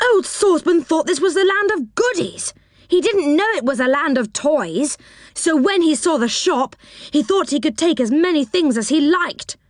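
high eager little man voice; Moonface. Acted. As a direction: chatter in a high, fussy voice. Moonface explains.

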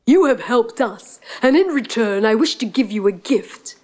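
stately storybook lion. Acted. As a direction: speak as a grateful, regal lion. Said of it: "the lion stepped forward and said".

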